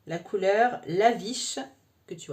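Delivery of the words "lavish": Lavish said slowly with a self-mocking English accent. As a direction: put on a posh English accent for Lavish, tongue in cheek. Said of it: "Tu noteras l'accent anglais". (accent anglais exagéré et moqueur sur Lavish)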